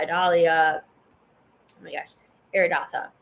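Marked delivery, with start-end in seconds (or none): 0.8-2.1 slow breathy whisper under the breath. Real, not acted. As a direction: whisper it to yourself, slowly. Muttered aside while reading names.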